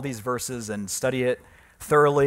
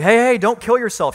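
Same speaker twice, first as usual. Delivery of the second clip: urgent call; 10 semitones higher, 7 dB louder than usual. Retold or imitated. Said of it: "Paul's like".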